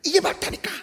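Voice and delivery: high insistent coach; bossy coach. Retold or imitated. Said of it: "막 이러면서". (고집 부리는 감독 말투)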